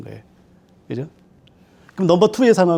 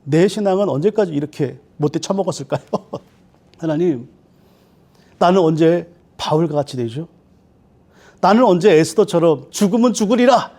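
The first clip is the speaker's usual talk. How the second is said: sorrowful prayer. Retold or imitated. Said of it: "이런 기도를 드리는 거예요".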